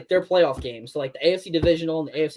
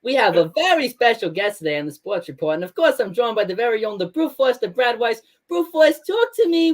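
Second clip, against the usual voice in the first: Tom Rice impression; 6 semitones higher than usual. Imitating Tom Rice introducing Brad on the Sports Report. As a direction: hype up the guest like a radio host. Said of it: "the Tom Rice into the Brad Weiss".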